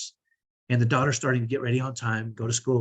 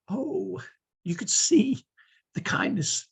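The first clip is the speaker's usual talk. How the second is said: hushed aside; 9 semitones higher, slower than usual. Real, not acted. Marveling at the onlookers' change.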